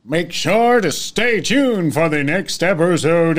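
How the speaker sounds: hammed-up outro.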